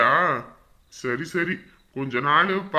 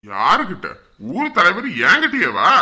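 loud affronted retort; indignant challenge; 7 dB louder than usual. Acted. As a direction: bristle at the insult. Village head indignant. (ஆத்திரத்துடன் உரத்த கேள்வி)

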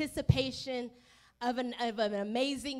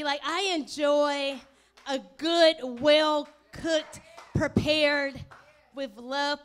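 slow, then louder on each word; savoring emphasis; 4 dB louder, much slower than usual. Real, not acted. Pastor describing a good meal, relishing.

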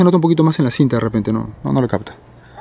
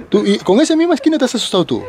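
laughing; 8 semitones higher than usual. Real, not acted. Teasing friend about being scared.

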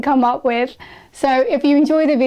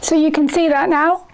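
through plastic face shield; nose covered by cup; speaking behind face shield; 3 semitones higher than usual. Real, not acted. Seen 0: Clear shield with red nose cup held over face while speaking.

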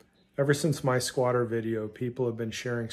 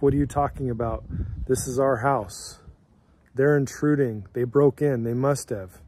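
louder, indignant wife's protest, half-acted; upset protest; 6 dB louder than usual. Wife protesting to the officer, loud and indignant. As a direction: push back hard, retelling her outrage. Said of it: "Your wife is upset. She's like".

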